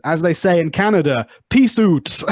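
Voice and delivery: quoting Rick. Retold or imitated. Telling the student about a hilarious Rick and Morty bit, mock Rick. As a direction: toss off "peace out" like Rick. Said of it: "and he says".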